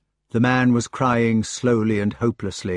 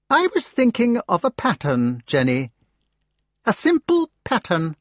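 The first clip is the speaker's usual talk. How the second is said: sneering Mordred; 11 semitones higher than usual. Acted. Mordred explains his pattern.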